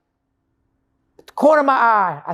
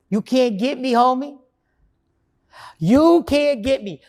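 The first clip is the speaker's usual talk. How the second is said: cocky taunting, voice a bit raised; 3 semitones higher than usual. Retold or imitated. Man taunts alcohol on his perfect day, cocky. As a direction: taunt alcohol like you've already won. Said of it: "Oh, the cockiness in my voice".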